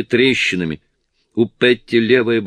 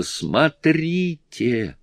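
higher, very drawn-out cry; wailing cry; 7 semitones higher, much slower than usual. A narrator's reading. Petty yelling at the plane turning towards them. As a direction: stretch the word out as a yell. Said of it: "Петти завопила".

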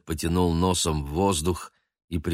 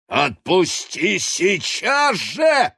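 much higher, louder slow shout; angry demand; 13 semitones higher, 5 dB louder, much slower than usual. A narrator's reading. Baguette ordering Noir to let go, shouting. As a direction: command it with all force.

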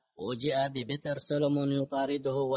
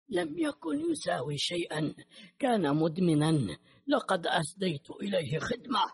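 higher-pitched, dismissive answer; contemptuous retort; 5 semitones higher than usual. A narrator's reading. Killer answers the grieving father at gunpoint, contemptuous. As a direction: brush off the victim with scorn.

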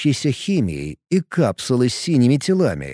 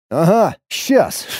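higher, slow scoffing retort; snorting scoff; 5 semitones higher, slower than usual. Acted. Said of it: "фыркнул я".

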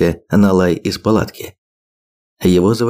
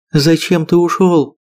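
sobbing; 8 semitones higher than usual. A narrator's reading. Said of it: "всхлипнула Агнета".

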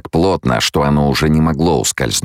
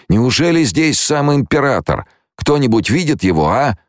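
much higher-pitched, questioning voice; anxious soldier; 12 semitones higher than usual. A narrator's reading. Blinded guard asking after the emperor, anxious high voice. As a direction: ask it high, searching blindly.

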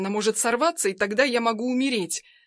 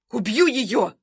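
yell; 4 dB louder, slower than usual. Acted. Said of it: "орёт Синявкина".

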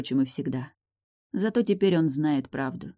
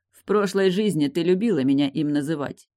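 usual speaking voice

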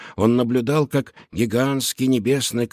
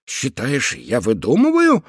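indignant; 4 dB louder than usual. Acted. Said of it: "возмутился Шустрик".

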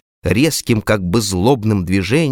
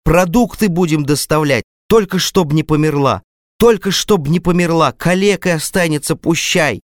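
pleading cries rising much higher; a father begging the doctor to save his daughter; desperate shouting; 7 semitones higher than usual. A narrator's reading. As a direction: beg frantically, climbing upward. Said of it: "кричал он в потолок".

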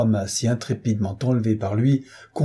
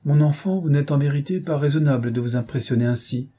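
a fond, gently scolding governess, higher on the opening; affectionate reproach; 4 semitones higher than usual. Acted. Governess gently scolding the frightened girl, affectionate reproach. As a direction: chide her kindly, like a fond nanny. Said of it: "avec un accent d'affectueux reproche".

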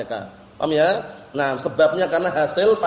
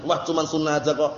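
softer, mildly sulky dismissal; a touch of a grudging shrug; sulky brush-off; 4 semitones lower, 4 dB quieter than usual. Retold or imitated. Brother brushes off a sunnah, mild sulky mock. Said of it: "dengan wajah merengut tadi".

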